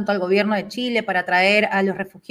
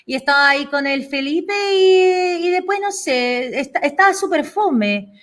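Chilean accent imitation; 3 semitones higher, faster than usual. Host shows off his Chilean accent to Sharoni, fast Chilean accent. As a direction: rattle it off like a Chilean friend gossiping, in Chilean accent. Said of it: "Yo voy a imitar el acento chileno".

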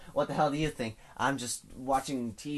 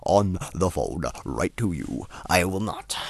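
talking far from the mic, a bit louder; distant mic voice; 4 semitones lower, 7 dB louder than usual. Shown as a demonstration. Vlogger to viewers, showing how he sounds off-mic: distant. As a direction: lean back and talk from across the room. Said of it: "if I sound distant".

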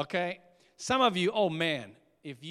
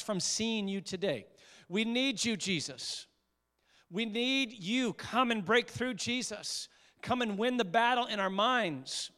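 fervent prayer building. Acted. Pastor crying out for Jesus to win the battle, fervent. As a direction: let the prayer swell into pleading.

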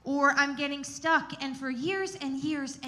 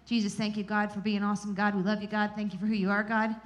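imitating a rote prayer run together; mock repetitive prayer; 3 semitones lower, faster than usual. Mimicking her own stuck prayer to God, repetitive. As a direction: rattle off the praise, tacking the name on each phrase. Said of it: "keep saying God's name over and over".

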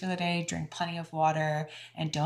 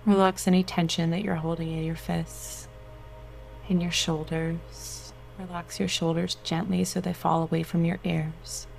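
guided meditation. Acted. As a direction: soothe them into relaxation.

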